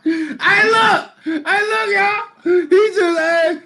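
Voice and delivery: high-pitched, breaking into laughter; barely getting words out through laughter; laughing hard. Real, not acted. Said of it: "I literally was in tears laughing".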